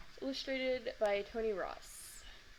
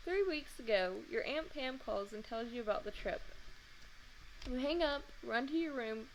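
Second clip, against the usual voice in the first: mock grown-up lecture. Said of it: "in my most grown-up voice".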